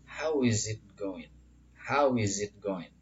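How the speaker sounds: "going" said slowly as "goin"; slow model phrase, "going" without final g; dropped G. Shown as a demonstration. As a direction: end "going" on a drawn-out n. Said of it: "drop the G atau G-nya dihilangkan".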